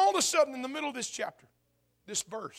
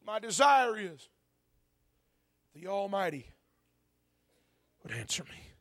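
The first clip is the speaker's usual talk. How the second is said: forsaken plea. Acted. Preacher as forsaken Job longing for an answer, forsaken plea. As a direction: let each phrase sink into silence. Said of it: "ringing timbre in that voice of a man that feels forsaken".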